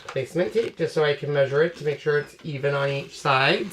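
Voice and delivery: talking while crunching; crunchy mouthful while talking; crunching chips. Real, not acted. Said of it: "Sorry for the crunch".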